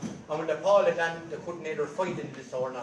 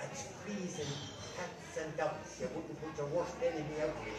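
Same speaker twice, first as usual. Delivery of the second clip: whispered; 7 dB quieter than usual. Retold or imitated. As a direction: keep it hushed so she won't wake. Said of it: "he whispered".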